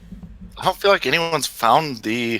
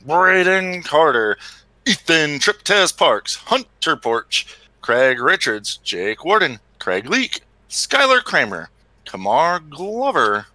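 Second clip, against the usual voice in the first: gate-drop lineup call; PA-style rider roll call; race announcer; slower than usual. Acted. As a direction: announce every rider to the crowd.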